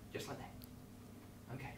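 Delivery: slow, breathless whisper; deflated whisper. Real, not acted. Host to kids, whispering in defeat. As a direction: let it die out. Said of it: "release my hands".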